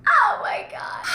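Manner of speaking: whispered, very high "oh my God"; breathless shock. Real, not acted. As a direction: breathe it out, stunned. Gasp after reading a quote.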